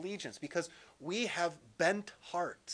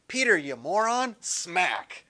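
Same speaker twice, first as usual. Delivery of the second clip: mock angry rebuke; 6 dB louder than usual. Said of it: "he's not just going like".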